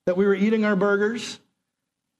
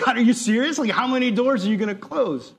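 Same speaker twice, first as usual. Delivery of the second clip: exasperated complaint; 5 semitones higher than usual. Pretend. Imagined exasperated complaint to God.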